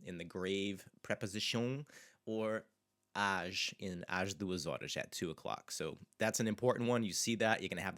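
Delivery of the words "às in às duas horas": "às" with an open, slow a. Shown as a demonstration. Teacher stressing the open "às" for the class. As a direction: say "às" with a wide open a. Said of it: "this open ah, às sound there".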